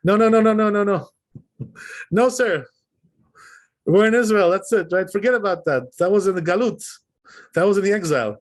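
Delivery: lightly voiced brusque insistence; dismissive Israelis. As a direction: wave it all away like a know-it-all Israeli. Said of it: "they're gonna tell you".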